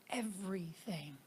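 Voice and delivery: whisper. Real, not acted. Reflective gratitude list.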